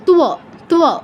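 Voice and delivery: "তুয়" as tu-o, t only touched; quick t into a full w on "তুয়"; half t, full w. Shown as a demonstration. Teacher demonstrating the cluster, "তুয়" as tu-o. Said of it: "ত অর্ধেক আর ও পূর্ণ".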